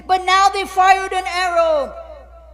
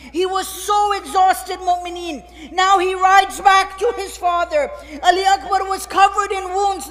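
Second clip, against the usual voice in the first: full-force sermon narration. Acted. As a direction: preach the fight out to the crowd.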